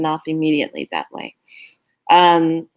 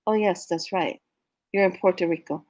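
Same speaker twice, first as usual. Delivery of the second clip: mock body voice; 6 dB quieter than usual. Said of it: "memory kicks in and says".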